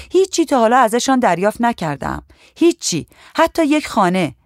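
put-on a chatty young officer fed up with her bosses; griping policewoman. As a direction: vent your grievances to a stranger. Najah complains about her bosses.

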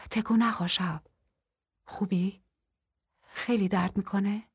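hushed, worried whisper in the dark; soft unvoiced concern close to his ear. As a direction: whisper so no one hears, gently checking on him. Wounded hero woken in dark.

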